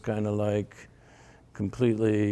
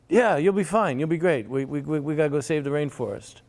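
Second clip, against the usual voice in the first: gushing friend; 6 semitones higher, faster than usual. Retold or imitated. Friend brushing off his doubts, high and gushing. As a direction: gush like nothing could go wrong. Friend voiced reassuring, pushy.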